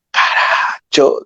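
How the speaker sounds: slow, rough whispered curse; harsh curse. Retold or imitated. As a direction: spit out Caracho like a fed-up boatman. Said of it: "una palabra fuerte". (maldición áspera y lenta en voz baja)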